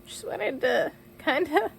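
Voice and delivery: real tears in the voice, halting between phrases; tearful. Real, not acted. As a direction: talk on through crying, pausing to regain control. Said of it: "folks, I don't normally cry".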